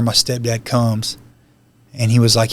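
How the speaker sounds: ordinary talk, nothing marked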